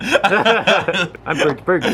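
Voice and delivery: high, very slow perky anchor voice; newscaster voice. Pretend. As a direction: introduce yourself like a cheesy TV anchor. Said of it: "your newscaster voice all of a sudden".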